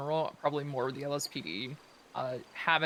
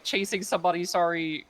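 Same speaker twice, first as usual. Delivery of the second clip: raised voice, mimicking a yell back; retold yell; 3 semitones higher, 5 dB louder than usual. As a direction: call it back louder, as a retold shout. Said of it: "I just yelled back".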